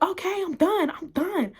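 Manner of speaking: high-pitched mock giving in; imitating surrender. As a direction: give in hastily as the pinned girl. Pinned girl gives in.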